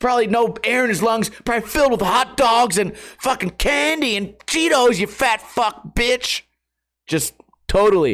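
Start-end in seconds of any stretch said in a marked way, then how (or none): 0.0-6.4 acted, mad, frustrated kid-like rant, pitched up. Retelling own messages written while stressed: imitating own frustrated rant. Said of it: "Just like a frustrated kid, mad".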